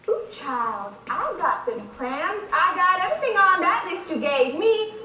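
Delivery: a touch of sass, held back; tentative, understated sassy take; half-hearted caricature for the director; sassy audition read. Acted.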